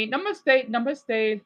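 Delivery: mock Indian accent "Namaste, namaste"; playful Hindi accent; Hindi-style greeting. Shown as a demonstration. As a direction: lightly imitate an Indian greeting. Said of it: "for Hindi, I would just say".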